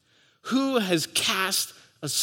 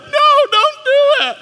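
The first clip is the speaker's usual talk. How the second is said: urgent no; 7 dB louder than usual. Retold or imitated. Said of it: "I'd be yanking her arm down like".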